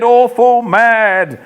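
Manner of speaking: high, slow, awful drawn out; slow terrified stress. Acted. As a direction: stretch "awful mad" in horror. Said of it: "shivering dreadful with the horrors".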